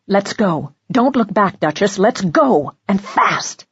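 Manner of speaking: firmly. Acted. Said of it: "Farrell said firmly".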